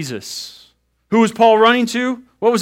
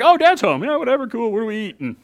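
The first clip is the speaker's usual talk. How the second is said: put-on bored kid; 4 semitones higher, faster than usual. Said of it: "They're like".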